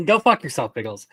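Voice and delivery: laughing through the insult; can't keep a straight face saying it. Real, not acted. Repeats insult while laughing.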